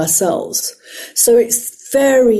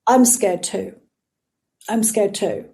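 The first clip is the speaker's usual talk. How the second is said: sincere admission. Retold or imitated. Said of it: "gestalt therapy here".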